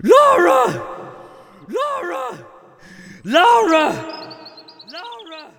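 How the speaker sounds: bellowing a name into the rain; foghorn bellow. Retold or imitated. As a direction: roar her name like a foghorn. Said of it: "unleashed my powerful foghorn voice".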